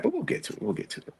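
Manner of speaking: squeaky silly aside; squeaky high voice. Pretend.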